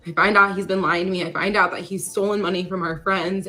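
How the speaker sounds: distraught. Retold or imitated. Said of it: "And I was like".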